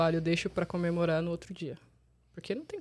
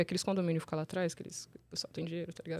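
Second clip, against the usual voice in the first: hushed aside; 2 semitones lower, 8 dB quieter, faster than usual. Real, not acted. Whispering about rich condos.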